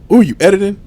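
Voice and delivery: high, mock-sweet afterthought; thrown-in softness. Imitating partner softening her complaint, high mock sweetness. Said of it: "tried to throw in the softness".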